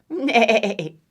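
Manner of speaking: quavering whinny; horse neigh. Acted. Horse signs off to duck, quavering whinny. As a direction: neigh with a shaking laugh.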